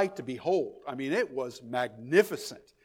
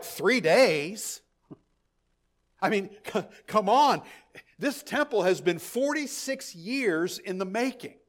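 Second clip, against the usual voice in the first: imitating the crowd's incredulous "Three days?"; mock scoffing, lightly voiced; scoffing disbelief; 5 semitones higher than usual. Preacher voicing the doubting crowd to the congregation, incredulous.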